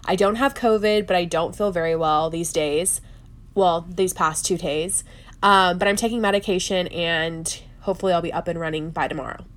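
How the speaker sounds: stuffy, under-the-weather voice; nasal voice. Real, not acted. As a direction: talk through a blocked nose. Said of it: "that is why I sound nasally".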